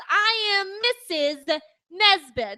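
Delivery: loud, high, drawn-out movie-quote outburst; hysterical Mrs. Nesbit. Acted. Quoting a Toy Story favourite to friends, hysterical outburst. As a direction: belt it out with manic theatrical despair. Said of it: "then he laughs maniacally".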